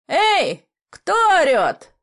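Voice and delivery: high, loud call from far off; a high, loud hail over the water; distant shout. A narrator's reading. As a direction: bellow the challenge across the harbour. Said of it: "донеслось снова".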